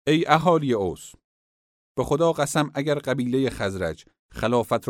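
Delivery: a chief urging his people loudly; loud address. Acted. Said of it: "با صدای بلند گفت".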